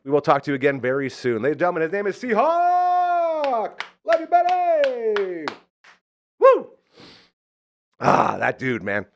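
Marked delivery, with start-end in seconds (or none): 1.4-5.4 high, far-carrying hype-man call; announcer shout. Real, not acted. Host introduces guest, radio sign-off. 6.4-6.7 loud, high celebratory woo; whoop. Real, not acted. Cheer after sign-off.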